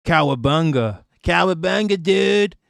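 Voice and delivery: hammed-up Israeli accent surfer dude; mock Israeli surfer accent. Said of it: "Israel accent".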